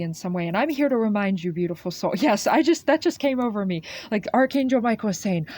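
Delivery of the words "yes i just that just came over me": laughing, louder and higher; a laugh breaking through her words; real laughter. Real, not acted. Reader laughing at a sudden feeling, higher and louder. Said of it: "'cause I'm laughing a little bit".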